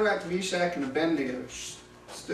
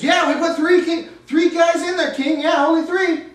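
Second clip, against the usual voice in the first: nervous advisors; 10 semitones higher, 8 dB louder than usual. Acted. Advisors answer the frantic king.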